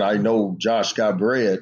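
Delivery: mock, openly sarcastic delivery. Retelling what the coach said about bread, imitating Coach English, sarcastic. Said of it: "in a sarcastic manner".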